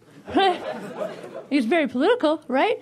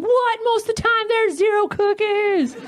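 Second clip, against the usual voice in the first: mock outrage; 5 semitones higher than usual. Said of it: "I'm like".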